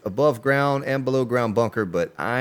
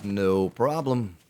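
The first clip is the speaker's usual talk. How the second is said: low, smooth radio DJ voice; radio guy voice; 4 semitones lower, 4 dB quieter than usual. Acted. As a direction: talk like a late-night radio host. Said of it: "I sound like a radio guy when I talk like this".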